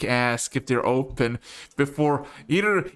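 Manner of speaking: ordinary talk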